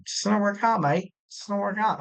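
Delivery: a badly faked Scottish or Irish accent, lightly done; terrible Scottish accent. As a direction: toss off a jokey Scottish brogue, barely there. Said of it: "Terrible accent".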